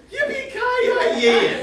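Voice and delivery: high, slow, stretched-out whoop of a cowboy cry; a mock triumphant yippee-ki-yay at high pitch; hammed-up action hero yell. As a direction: draw out the catchphrase like a movie hero. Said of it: "he'll say something like".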